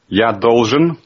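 slow, careful Russian; slow Russian demo. Shown as a demonstration. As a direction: spell it out slowly in Russian. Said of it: "translate that into Russian for me".

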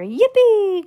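high, loud, drawn-out whoop; gleeful shout. A narrator's reading. Grandpa Joe riding the rocketing lift, gleeful shout. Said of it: "Grandpa Joe shouted again".

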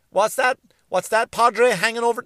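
mock casual inquiry. Comic asking the Padre about artwork, mock casual inquiry. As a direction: play someone nosily quizzing a priest. Acted haggling with a Vatican priest.

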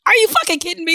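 can't believe it, half laughing; incredulous outburst. Retold or imitated. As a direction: pitch jumps way up in disbelief. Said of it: "the next thing that I'm thinking".

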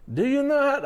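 put-on high, failed Italian accent; a clumsy try at an Italian accent; Italian accent attempt. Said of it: "I don't know an Italian accent".

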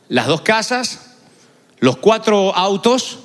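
slowly spelling out each possession; slow list. Retold or imitated. The Lord listing what the rich man must sell, slow and deliberate. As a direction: drag out each item, savouring it.

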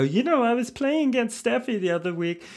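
mid-Atlantic tennis player voice; mid-Atlantic accent. Retold or imitated. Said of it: "develop this mid-Atlantic accent where they go".

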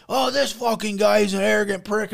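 mocking the guy.

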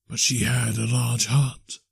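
slow, drawn-out spirit voice; measured ghost. Acted. Ghost speaks to Scrooge of her heart, slow ghostly voice. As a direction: let each word linger as a ghost.

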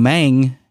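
"mang" ending in a hard ng-g sound; man with a G. Shown as a demonstration. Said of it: "with the G".

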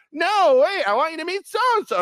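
put-on high, loud eager young woman; imitating a giddy young woman; high girly voice. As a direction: insist like a giddy college girl. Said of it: "Lindsay on FaceTime".

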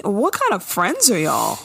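usual speaking voice

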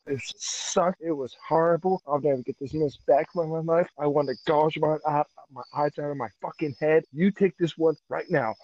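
disgusted loud rant. Real, not acted. Ranting to his co-host about a bad match, loud and disgusted.

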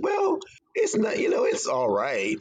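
lightly voiced reluctant mother; mom's grudging verdict. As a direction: imitate mom withholding praise.

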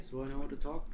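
hushed whisper to the group. Real, not acted. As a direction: keep it to a whisper. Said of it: "Why are you whispering?".

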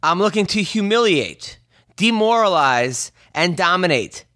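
measured reading with weighty pauses; deliberate read-aloud. Acted. Host reads the fighter's tweet back to him, deliberate and spaced out. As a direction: set each verb apart with a pause.

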